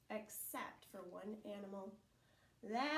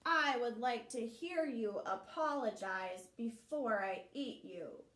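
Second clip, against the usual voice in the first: bear voice; 8 dB louder than usual. Acted. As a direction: answer like a big lumbering bear. Bear demands apology.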